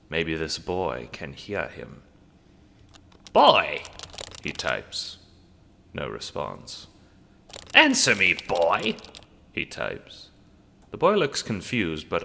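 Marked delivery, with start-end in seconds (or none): 3.3-3.8 loud barked call at the screen; shouted command. Acted. Vagabond yelling at the boy on screen, loud command. 7.7-8.9 loud, impatient command; shouted demand. Acted. Vagabond demanding the boy answer, loud shout.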